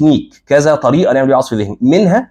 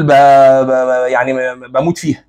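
husband stammering a confession; much slower than usual. Retold or imitated. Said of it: "والراجل يقول".

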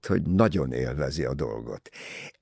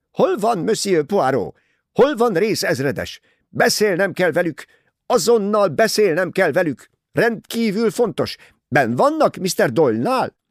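high, loud frantic calling for help; shrill shouting; 12 semitones higher, 7 dB louder than usual. A narrator's reading. Mrs Otterborn bursts in shouting for Poirot and the colonel, high and loud. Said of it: "éles, rikácsoló hang közeledett".

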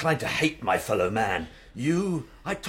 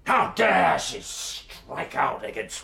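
higher, louder indignant cry; jealous outburst; 7 semitones higher, 5 dB louder, slower than usual. Real, not acted. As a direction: rage at her happiness.

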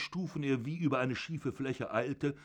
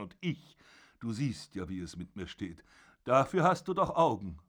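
put-on loud, raised furious old father berating his son; zorniger alter Vater; 3 dB louder than usual. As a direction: bellow down at your son from the bed. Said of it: "father accuses Georg". (wütender Vater, laut und erhoben)

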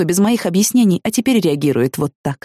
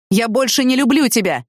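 shouted back; 5 semitones higher than usual. Acted. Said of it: "крикнул он мне".

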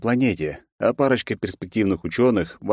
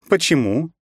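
surprised question; 8 semitones higher than usual. A narrator's reading. Yufi surprised, high voice.

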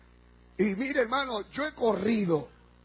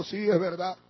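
tearful confession; 6 semitones lower than usual. Retold or imitated. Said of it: "el papá se puso a llorar".

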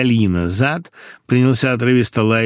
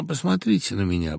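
inviting, quiet; 2 semitones higher, 8 dB quieter than usual. A narrator's reading. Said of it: "пригласил человек-дворняга".

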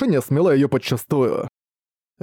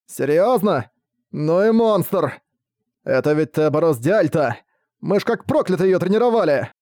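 выше, с изумлением и страхом; ошарашенный подросток перед монстром; испуганный ученик; 4 semitones higher than usual. Acted. (испуганный юношеский голос)

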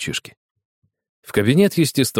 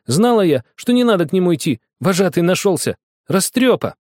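put-on high, loud fast scolding girl; angry shout; 11 semitones higher, 4 dB louder than usual. A narrator's reading. Girl yelling at the scruffy boy, furious. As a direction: yell at him fast and furious. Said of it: "закричала Светлана".

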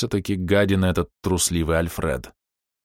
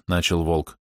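ordinary delivery

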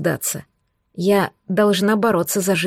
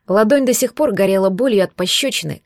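ordinary delivery

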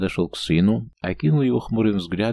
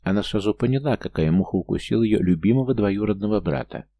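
usual speaking voice

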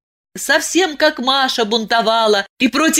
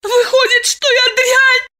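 crying out; 4 dB louder than usual. Acted. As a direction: cry out in self-disgust. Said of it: "закричала она".

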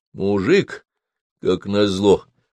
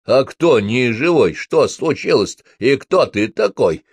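slow, puzzled questions; clearly bewildered driver; 4 semitones higher, 4 dB louder, slower than usual. Acted. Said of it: "вполне внятно".

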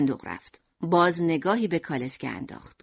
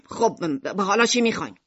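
angry; 3 semitones higher, faster than usual. Acted. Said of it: "با عصبانیت گفت".

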